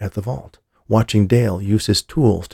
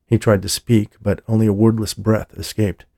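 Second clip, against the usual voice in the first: usual speaking voice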